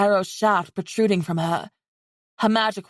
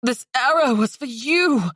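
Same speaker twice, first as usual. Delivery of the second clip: angry; 5 semitones higher than usual. Acted. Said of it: "said angrily".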